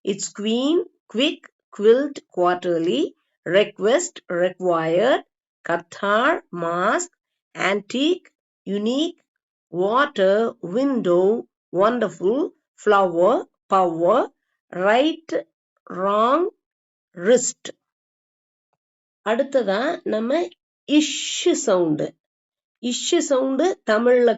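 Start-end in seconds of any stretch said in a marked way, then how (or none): 0.0-17.7 word list read item by item, carefully separated; model pronunciation. Shown as a demonstration. Teacher pronouncing the word list once for learners, carefully. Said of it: "ஒரு தடவை pronounce பண்ணி". 20.9-22.1 இஷ் with a long, slow sh hiss; SH sound. Shown as a demonstration. Teacher introducing the sound to Tamil learners, sh held. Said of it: "ரொம்ப concentrate பண்ணிக்கணும்".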